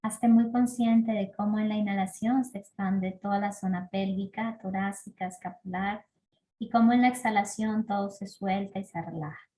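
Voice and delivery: calm breathing-practice guidance with long pauses; guided meditation. Acted. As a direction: lead them gently through each breath, letting phrase ends fade. Guía una práctica de respiración. (guía de meditación pausada y serena)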